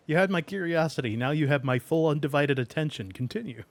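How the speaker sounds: fast, loud smug villain line; smug movie quote. Pretend. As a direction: deliver it like a gleeful schemer. Quoting famous intrigued line.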